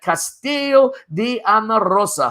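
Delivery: amateur Italian accent on the castle's name; showy try at an Italian accent; attempted Italian accent. Shown as a demonstration. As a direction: have a go at Italian pronunciation. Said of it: "My accent, I'm working on it".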